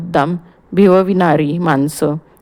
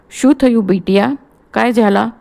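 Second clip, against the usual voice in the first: put-on higher, Gujarati-accented old doctor; a fussy Gujarati doctor rushing in; 4 semitones higher than usual. (Gujarati डॉक्टरचा आवाज)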